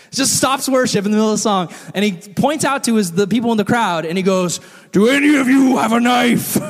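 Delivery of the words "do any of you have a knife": loud call higher than usual. Retold or imitated. Pastor calling to the congregation for a knife, loud. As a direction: call out to the whole crowd. Ken calls out to crowd.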